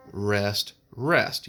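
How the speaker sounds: "rest, rest" spoken as two separate beats. Shown as a demonstration. Music teacher counting a half rest, spoken on the beat. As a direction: say each "rest" evenly on the click. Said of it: "I said rest, rest with the clicks".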